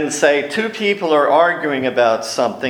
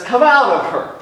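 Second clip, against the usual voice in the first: higher, louder rebuke; commanding order; 11 semitones higher, 4 dB louder than usual. Retold or imitated. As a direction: snap the command at the spirit. He turns around and he says.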